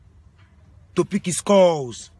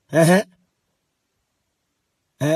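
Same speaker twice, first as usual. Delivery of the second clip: usual speaking voice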